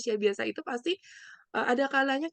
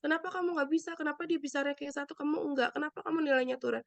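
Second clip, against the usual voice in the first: comparing parent; 4 semitones higher than usual. Retold or imitated. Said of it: "gitu misalkan gini membandingkan".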